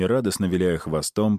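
usual speaking voice

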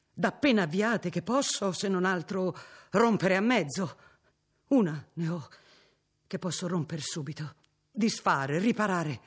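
mild repentant outburst growing in force; anguished exclamation, building. Acted. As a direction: let remorse swell into resolve. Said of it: "esclamò il Signore".

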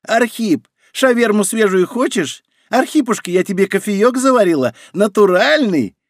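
high, squeaky fawning mockery; mock a groveling trader in a squeak; deliberately squeaky voice. A narrator's reading. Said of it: "Нарочито писклявым голосом дед передразнивал".

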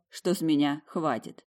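plain reading voice

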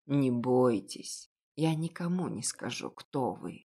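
slow, low and gentle; calm her fears softly; a lightly voiced kind old baker; reassuring. Reassures frightened girl.

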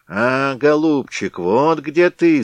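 high, slow, loud bleat; bleating ram's head. Acted. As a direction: bleat it like a ram. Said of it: "заблеяла баранья голова".

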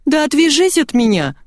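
snapping at the teasing brother, yelling. A narrator's reading. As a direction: scream it to make him back off. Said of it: "заорала я".

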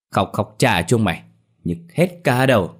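irritated curse rising at the end; annoyed scolding. Acted. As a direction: snap at the noisy mourners. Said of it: "mà chửi". (mắng gắt, bực bội)

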